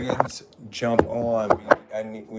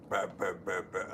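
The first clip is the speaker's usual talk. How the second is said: burping; 9 semitones lower, 11 dB quieter than usual. Shown as a demonstration. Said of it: "I burp".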